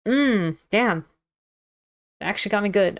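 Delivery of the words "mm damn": pained. Real, not acted. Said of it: "got me good in the finger".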